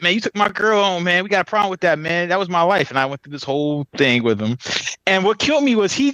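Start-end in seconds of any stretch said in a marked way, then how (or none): 0.0-2.9 mock jealous boyfriend. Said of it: "Yeah, I said".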